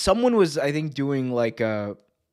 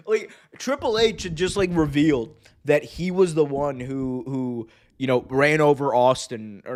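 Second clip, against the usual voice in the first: usual speaking voice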